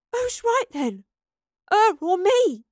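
very high, loud demand; angry challenge. Acted. Astrid making the professor choose, loudly indignant. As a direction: demand an answer, outraged.

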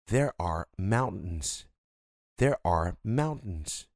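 there are mountains said slowly, T swallowed; slow model phrase. Shown as a demonstration. Teacher drilling the phrase for students. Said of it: "Então, mountain".

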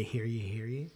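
town crier. Pretend. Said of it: "sounds like he would say".

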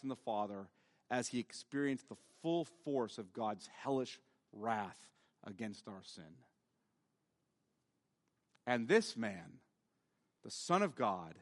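low, soft, reverent sermon delivery; solemn, subdued preaching. Acted. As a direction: speak gravely, pausing after each phrase. Preacher drops into solemn, hushed exposition.

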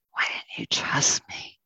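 repeated as a hushed whisper; soft whisper. Acted. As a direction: let the question sink into a whisper. Ox reproaching the farmer, repeated.

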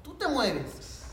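furious soldier spelling out the order; angry soldier. Retold or imitated. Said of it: "el soldado se enojó".

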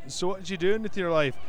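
put-on light Scottish accent reading a tweet; hint of a Scottish accent, question to a friend. Host reads a tweet to cohosts in a light Scottish accent. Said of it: "read some Scottish tweets in my best Scottish accent".

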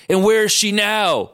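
high, drawn-out angry demand; hammed-up confrontational yell; mock yell. A narrator's reading. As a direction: raise it high and stretch the question. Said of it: "Logan yelled".

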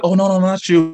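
high mock female apology; imitating the girl. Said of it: "she's like".

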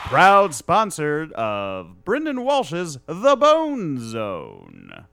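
slow announcer sponsor tag; booming voiceover tag line; ad read voice. Pretend. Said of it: "do a plug".

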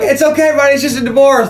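high, loud, relieved bro voice; cheerful Bulldog. Retold or imitated. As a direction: cheer him up like a jock buddy. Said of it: "He's like".

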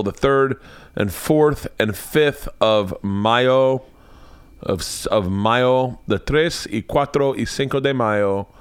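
drawn-out, hammed-up Mexican Spanish accent; mock Mexican accent. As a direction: lean into a jokey Mexican accent on the dates. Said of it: "I know I'm just doing a racist accent".

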